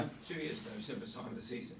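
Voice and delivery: hoarse, fading voice; strained voice giving out; losing voice. Real, not acted. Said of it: "excuse me, I'm losing my voice".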